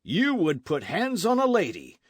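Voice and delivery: high, loud furious protest; enraged. A narrator's reading. Don Carlos defending his wife from arrest, high loud fury. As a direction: rage at the sergeant to defend the lady.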